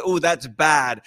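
slow, cool slang approval; trying to sound cool. Retold or imitated. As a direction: draw it out like admiring slang. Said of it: "we wanna sound cool".

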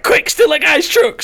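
high, loud urgent shout; urgent call. Retold or imitated. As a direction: blurt it out excitedly to a teammate. Acting out their excited in-game call.

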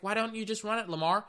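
high, exasperated plea; high fan plea; pleading fan. Retold or imitated. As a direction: beg him to run it, high. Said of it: "Even I was like".

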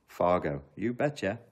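ordinary talk

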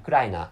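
Ukraina said as oo-KRA-ee-na with a tapped r; original pronunciation. Shown as a demonstration. Explaining the original Ukrainian name Ukraina. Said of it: "original pronunciation of Ukraine is".

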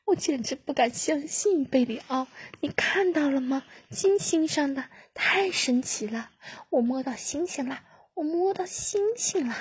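rising into a high amazed cry; marvel, ending in a high thrilled cry; growing wonder, peaking high. Acted. Amazed at a piece of Venus.

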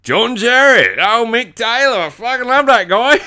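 lightly exaggerated ocker cousin; sweary, very Aussie bloke taking over the show; Dingo Darren. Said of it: "he's the most Australian guy I know".

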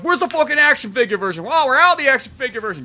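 high, loud exchange; mock outrage. Fan and clerk arguing over figures, mock outrage. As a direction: demand then apologise.

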